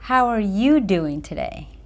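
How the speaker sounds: caring, lean on "you"; stress on you, nurturing. Shown as a demonstration. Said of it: "focusing on the individual, I was more nurturing".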